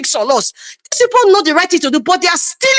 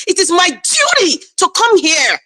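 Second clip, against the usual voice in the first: raised voice stressing duty; emphatic declaration; 3 semitones higher than usual. Real, not acted. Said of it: "I keep saying it".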